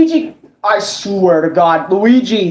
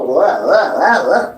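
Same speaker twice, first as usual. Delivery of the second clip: lower, bouncing wah sounds; Luigi hover noise; 4 semitones lower, slower than usual. Retold or imitated. Gamer imitating Luigi's hover jump sounds. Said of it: "you can go".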